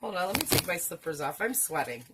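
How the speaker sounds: usual speaking voice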